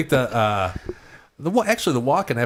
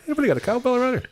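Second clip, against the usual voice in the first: high, strained impression of a raspy voice; comic impression; faster than usual. Joking with the crew, a high strained impression. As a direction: push the voice way up into a strained rasp. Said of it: "have Rich do impersonations".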